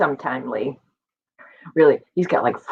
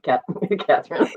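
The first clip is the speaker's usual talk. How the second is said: laughing name; 3 dB quieter than usual. Real, not acted. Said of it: "That's my cheat sheet".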